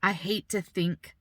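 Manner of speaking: trying not to cry; holding back tears. Real, not acted. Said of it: "I'm trying not to cry".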